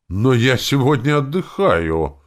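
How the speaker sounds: high, slow nervous protest. Acted. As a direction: object anxiously. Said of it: "возразила она нервно". (нервно, выше и медленнее)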